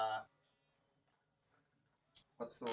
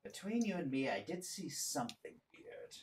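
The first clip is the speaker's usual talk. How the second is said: hushed conspiratorial aside; quiet bartender's confidence; confiding; 7 dB quieter than usual. Acted. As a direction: lean in and share a secret softly. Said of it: "he leans closer to you".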